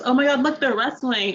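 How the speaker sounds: a hint of an excited child pointing; little girl. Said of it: "the little girl goes".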